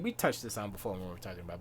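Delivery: normal talking voice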